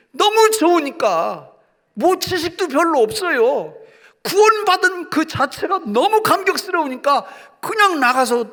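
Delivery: high, loud, exultant sermon voice; impassioned pulpit delivery, pitched high; fervent preaching. Real, not acted. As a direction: preach it full force, bursting with joy. Preaches excitedly on salvation joy.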